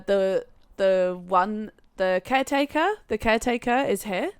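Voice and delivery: hesitant, lightly imitated Jamaican accent; mock Jamaican accent, lifted in pitch. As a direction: grope for the word in a mild Jamaican accent. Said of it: "a very thick Jamaican accent".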